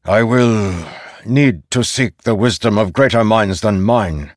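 lightly voiced general delivering a verdict; stern general. General passes judgement on Zeth.

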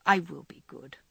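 lightly voiced penitent child; mock-penitent, a hint of a child; penitent child imitation. A narrator's reading. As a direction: drolly mimic a sorry child. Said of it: "droll imitation of a penitent child".

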